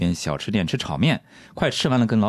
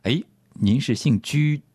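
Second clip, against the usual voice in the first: drawn-out hesitant name reading; slow careful staff query; 2 semitones higher, slower than usual. Pretend. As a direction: slowly puzzle out a strange name. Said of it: "我会这么问".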